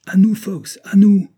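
loud, high rallying cry; shouted call. Acted. Captain calls Fox to chase the leopard, shouting. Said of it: "cria-t-il".

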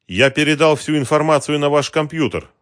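high, loud exasperated moan; groaning complaint. A narrator's reading. Weary operator pestered by the detective, loud moaning complaint. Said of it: "простонал тот".

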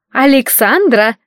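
a hint of an impatient mother calling from the next room. A narrator's reading. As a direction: call out, drawn out and impatient. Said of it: "раздался нетерпеливый голос маман". (мать из спальни зовёт дочь, нетерпеливо)

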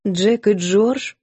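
incredulous question. Acted. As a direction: hold back a laugh in disbelief. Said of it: "переспросила Милисент". (недоверчиво, сдерживая смех)

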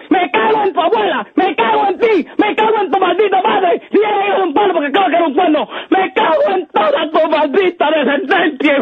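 maldiciones furiosas en cadena; suéltalo todo con rabia; angry cursing. Real, not acted. Retahíla de insultos al bromista. (insultos furiosos)

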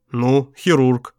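slow, flat-toned indifference; indifferent. Acted. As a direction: shrug the words off slowly. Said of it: "равнодушно произнёс Алекс".

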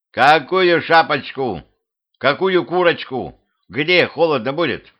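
high, incredulous questions, slow at first; exasperated bafflement. A narrator's reading. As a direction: echo the fussing in disbelief. Husband baffled by wife's fussing.

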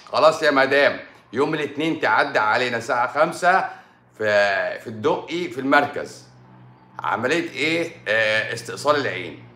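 hammed-up doctor casually booking surgery; imitating a doctor breezily prescribing eye removal; mock doctor voice. Doctor answering the patient.

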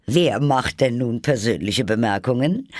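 high, loud, crowing comeback; triumphant. A narrator's reading. Hatter catches Alice being personal, triumphant and loud. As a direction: call it out in triumph. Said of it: "rief der Hutmacher triumphierend".

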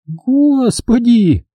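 high, very slow moaning cry; groan. A narrator's reading. Jigger moans at the huge sum, slow. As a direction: drag it out in despair. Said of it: "простонала Джиггер".

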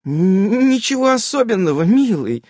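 high, light chirpy voice; wife chirping to husband. A narrator's reading. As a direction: twitter it sweetly. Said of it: "защебетала Ульянка".

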